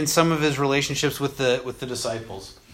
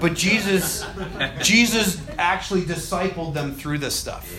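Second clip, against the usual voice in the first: laughing; 4 semitones higher than usual. Real, not acted. Laughing through the point.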